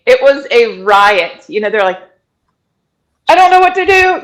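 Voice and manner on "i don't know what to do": high, loud mock panic; panicky paramedic. Paramedic panicking at a car birth, high mock panic. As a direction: play the flustered medic who's lost. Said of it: "these paramedics who are panicking".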